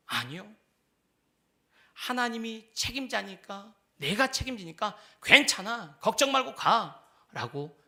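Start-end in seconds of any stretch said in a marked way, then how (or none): 4.0-7.8 slow, gentle reassurance; Lord's reassuring voice. Acted. Lord reassuring a worried disciple, slow and gentle. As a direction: tell them it's fine, slowly. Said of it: "말씀하시는 주님의 음성입니다".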